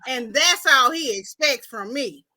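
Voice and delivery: put-on slow, deliberate young woman making her case; Barbara. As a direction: stretch the words out, unhurried. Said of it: "this is what Barbara saying".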